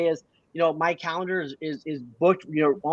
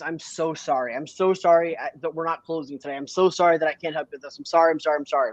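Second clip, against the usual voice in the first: overly apologetic. Shown as a demonstration. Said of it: "So overly apologetic is".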